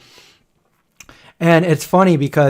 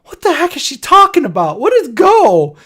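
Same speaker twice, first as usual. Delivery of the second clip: high, baffled "What is go?"; confused relative; 12 semitones higher, 4 dB louder than usual. Retold or imitated. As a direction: sound totally lost, pitched up. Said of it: "the person's like".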